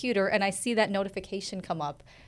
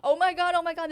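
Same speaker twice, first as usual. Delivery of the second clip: excited squeal; 8 semitones higher than usual. Retold or imitated. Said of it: "And I was like".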